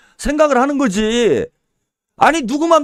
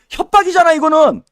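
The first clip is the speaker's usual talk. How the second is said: higher, louder insistence; raised-voice indignant cry; indignant shout; 5 semitones higher, 4 dB louder than usual. Real, not acted. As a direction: hammer the point in outrage. Insisting it was a threat.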